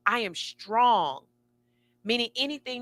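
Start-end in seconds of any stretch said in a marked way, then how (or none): 0.1-1.3 mantra. Shown as a demonstration. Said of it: "These are my main mantras".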